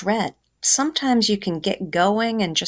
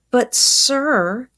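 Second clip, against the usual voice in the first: higher, pleading little voice; pleading boy; 6 semitones higher, 3 dB louder than usual. Acted. Hungry boy pleads with the doorman, higher pleading. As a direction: beg the man, voicing a kid.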